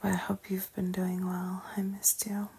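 gentle intimate whisper. Acted. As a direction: whisper it tenderly to the listener. Whispered aside to listeners.

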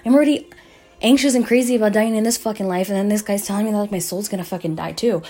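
high, loud anxious rant, easing off; retold panic. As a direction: replay a panicked outburst, rushed at first. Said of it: "a fucking anxiety attack".

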